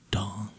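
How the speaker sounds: a single ringing "dong"; imitated clock chime. A narrator's reading. Clock striking midnight at the ball, imitated chime. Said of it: "went the clock again".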